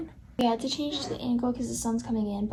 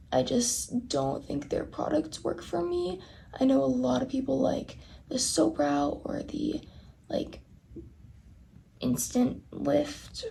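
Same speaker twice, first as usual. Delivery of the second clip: raspy, hoarse voice; rough, raspy throat; smoker's rasp. Real, not acted. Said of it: "why I sound like this right now".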